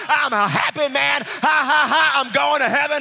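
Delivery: exultant preaching. Real, not acted. Preacher rejoicing before the throne, exultant preaching. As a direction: preach it out joyfully.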